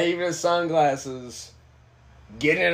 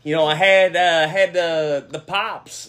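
put-on a light Minnesota accent, rambling about hockey and pop; lightly voiced Midwest hockey guy; easygoing Minnesota accent telling a story. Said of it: "give me a good Yankee accent".

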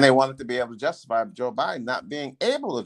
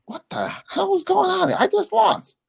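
stunned outcry. Retold or imitated. Candidate who just lost hears a celebrating band, stunned high outcry. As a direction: blurt it out, totally thrown. Retelling his shock at the band.

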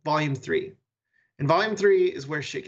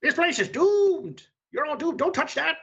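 ominous game master voice; 11 semitones higher than usual. Acted. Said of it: "So I love being like".

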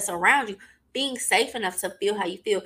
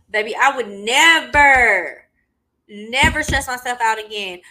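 emphatic vow; 3 semitones higher, 8 dB louder than usual. Retold or imitated. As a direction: declare it loudly, dragging out the first words. Quoting her own Facebook post.

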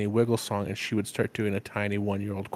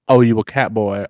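Walton Goggins; 8 dB louder than usual. Retold or imitated. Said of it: "in Walton Goggins' voice".

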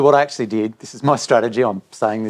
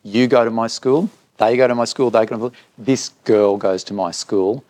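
retold anger. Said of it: "I actually got angry".

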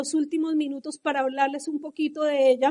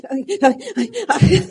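hammed-up wailing "ay"s, building louder; mock baby crying; 5 dB louder than usual. Shown as a demonstration. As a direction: cry like a baby, played for laughs. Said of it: "lloro como un bebé, así". (llanto de bebé exagerado, en broma)

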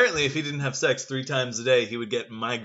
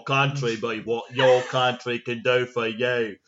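put-on lightly done Yorkshire accent on a famous speech; 2 semitones lower, 4 dB louder than usual. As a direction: read the speech line in a mock Yorkshire accent. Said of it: "him with his Yorkshire accent going".

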